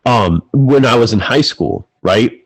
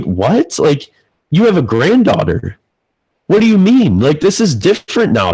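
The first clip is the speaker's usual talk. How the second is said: incredulous outburst; 4 semitones higher than usual. Retold or imitated. Son pleads with his dismissive dad, high incredulous outburst. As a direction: plead with Dad, high and urgent, that things are different now.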